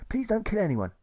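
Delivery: high, pleading soldier voice; Bernie's plea. A narrator's reading. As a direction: beg him gently, voice lifted. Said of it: "Bernie begins to say".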